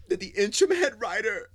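thrilled shout of the name; excited announcement. Real, not acted. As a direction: burst out with the big news. Announcing big soap news excitedly.

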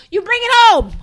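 loud, high, forceful finish; emphatic demand. Real, not acted. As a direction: drive the demand home at high volume. Heated argument about actor's effort.

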